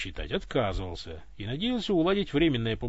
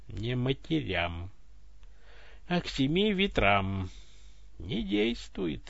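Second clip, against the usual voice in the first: resigned; much slower than usual. Acted. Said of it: "обречённо констатировал голос".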